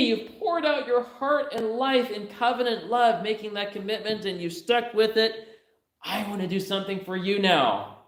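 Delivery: high, gentle voice of a mother-in-law; voicing Naomi. Preacher voicing Naomi offering Ruth a home, high and tender. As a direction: speak as Naomi, kindly offering her daughter-in-law help. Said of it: "It's as if she's saying".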